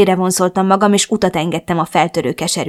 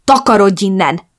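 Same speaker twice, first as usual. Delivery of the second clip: shriek; 5 dB louder than usual. Acted. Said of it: "visítottam hirtelen".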